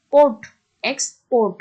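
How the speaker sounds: loud পোর্ট alone, then এক্সপোর্ট with "PORT" punched; এক্সপোর্ট split in two, weight on the second part; stress on last syllable. Shown as a demonstration. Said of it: "পোর্টের উপরে গিয়ে সেখানে একটা stress".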